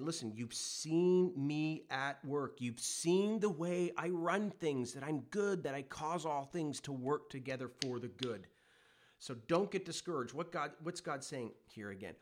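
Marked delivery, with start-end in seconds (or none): 0.0-8.5 voicing God. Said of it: "He's saying".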